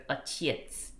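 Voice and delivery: отец said slowly, the first o weakened to an uh, stress on the е; slow demo of отец with a weak first vowel; reduced unstressed o. Shown as a demonstration. To a Russian study video, slowly showing отец with a reduced o. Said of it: "the O gets weakened and becomes like an uh sound".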